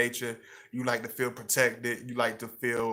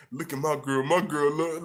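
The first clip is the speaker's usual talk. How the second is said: lightly voiced doting boyfriend; 4 semitones higher, 3 dB louder than usual. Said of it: "Be like".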